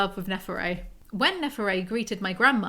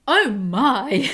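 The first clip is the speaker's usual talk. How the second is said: put-on Southern American accent; 6 dB louder than usual. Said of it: "proper Southern American".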